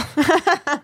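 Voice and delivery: high cackling laugh; evil laugh. Real, not acted. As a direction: cackle like a villain.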